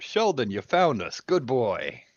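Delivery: mildly hammed-up happy call, pitch swooping up; excited yell. Excited man greets his Sheldon, lightly acted yelling. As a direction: call out as if praising a dog. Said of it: "yelling out".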